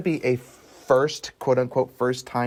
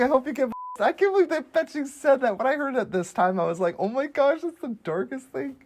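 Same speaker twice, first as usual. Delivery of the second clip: Porky Pig voice; 13 semitones higher than usual. Retold or imitated. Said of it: "Hey, Porky Pig".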